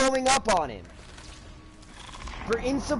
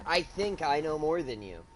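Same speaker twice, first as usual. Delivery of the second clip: smug teacher; 5 semitones lower than usual. Retold or imitated. Retold teacher line, before the comeback.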